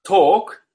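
"talk" sounds like tok; "talk" pronunciado tok; English talk. Shown as a demonstration. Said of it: "se pronuncia".

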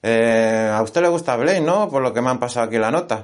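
high, loud chirpy host; radio host voice. Acted. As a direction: play the excited radio host. Host voice questioning caller.

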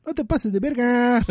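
high, laughing Mexico City slang line; quoting a friend through laughter; laughing quote. Retold or imitated. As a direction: blurt it while cracking up. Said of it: "Bubbles goes like".

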